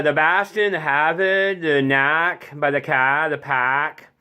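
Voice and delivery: Boston accent, R's dropped from each word. Shown as a demonstration. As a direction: list the words like a Bostonian. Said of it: "one of those accents".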